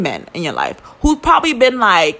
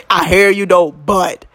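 scornful mock quote; 2 semitones lower than usual. Mocking homeboy's dismissive reply to friends. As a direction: repeat his words with scorn. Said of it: "This how you know niggas ain't shit".

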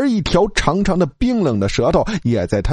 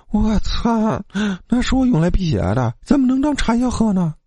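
higher, faster protest; mild indignant outburst; 8 semitones higher than usual. A narrator's reading. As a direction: bristle at the very idea. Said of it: "老七的青筋蹦起来多高".

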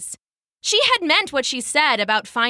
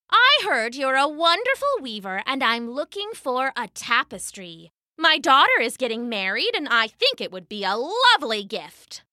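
put-on old woman voice; 3 semitones higher than usual. Disguised goddess as old woman.

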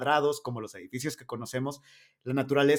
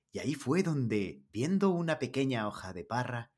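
put-on softer documentary narrator with a Spanish accent; 2 semitones lower, 5 dB quieter than usual. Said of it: "es voz de documental". (voz de documental con acento español)

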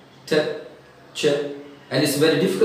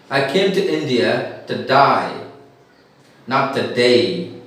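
slow imitated Australian accent, "today" said as "to die"; mock an Australian saying "to die" for "today"; slower than usual. Australian cricketer answers when he came to India, imitated Australian accent. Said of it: "He says like this".

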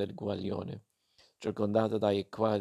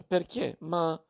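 higher, anxious asking; alarmed question; 4 semitones higher than usual. Acted. Daughter alarmed by her mother's order, anxious. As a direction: fear something happened to family. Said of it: "si alterò in faccia".

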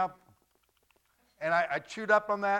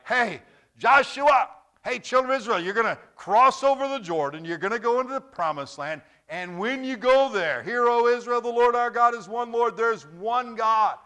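high, loud calling out to a crowd; calling as Moses; 5 semitones higher, 5 dB louder than usual. Retold or imitated. Moses calling to the children of Israel, loud and high. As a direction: proclaim it like a prophet calling across a camp. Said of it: "Moses is saying".

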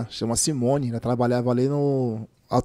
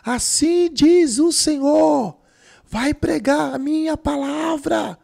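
prophetic voice; 11 semitones higher than usual. Retold or imitated. Prophecy delivered by woman.

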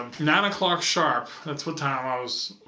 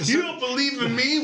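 mock threatening Santa; 8 semitones higher than usual.

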